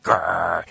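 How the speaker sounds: short low growl; quick growling snarl; imitated dog growl. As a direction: growl like the dog behind him. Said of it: "yeah, just like that".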